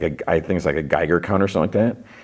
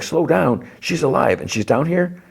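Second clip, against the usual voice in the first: high-pitched mock disbelief; incredulous retort; 10 semitones higher than usual. Young Shah answers older Shah's order, high incredulous imitation. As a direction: throw it back as an outraged question.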